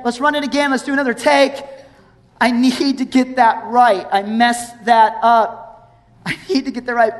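urgent, pleading director calling cut; pleading do-over. Pretend. Peter imagined asking a do-over.

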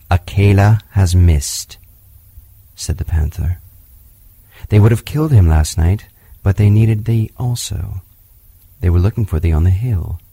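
a wise big cat giving bad news; panther voice. Bagheera warns Mowgli.

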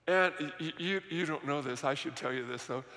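low, soft, hesitant aside; confidential aside. Real, not acted. Pastor lets the congregation in on security, confidential aside. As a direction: drop the voice as if letting them in on something.

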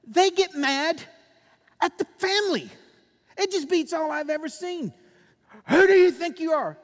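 loud, high, angry yelling; furious mock outburst; angry shout. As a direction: shout it like an offended addict. Preacher mimics angry addict.

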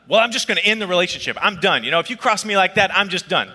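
imitating a fed-up sister; high, emphatic declaration of being done; angry. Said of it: "I mean, she was angry".

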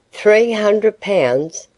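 slow, high rising disbelief; shocked question. Acted. Mrs Tulliver hearing the debt for the first time, slow shocked rise. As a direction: stretch it out in dismay.

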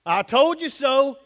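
smug scoffing jab; a self-righteous church member's jibe; mock told-you-so. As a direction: sneer it at the fallen. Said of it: "we go".

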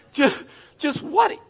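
slow, high incredulous question; baffled. Acted. Preacher mimicking someone puzzled by manna, baffled. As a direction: stretch it out in baffled disbelief.

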